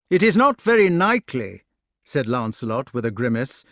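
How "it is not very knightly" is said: loud, high objection; raised-voice protest. A narrator's reading. Knight up a tree to his attacker below, protesting loudly. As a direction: call down a reproach.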